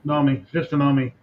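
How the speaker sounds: Nomi begun straight on the N; silent K. Shown as a demonstration. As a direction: say Nomi with no K sound. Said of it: "You don't pronounce the K in Nomi".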